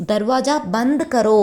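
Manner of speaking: "தர்வாஜா பந்த் கரோ" slowly, word by word; slow teacher's demo of "தர்வாஜா பந்த் கரோ"; pronunciation demo. Shown as a demonstration. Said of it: "அப்படின்னு pronounce பண்ணணும்".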